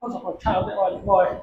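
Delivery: lightly imitated American-British accent, run together; mock Western English accent, words blurred. Shown as a demonstration. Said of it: "यही American या British accent होता".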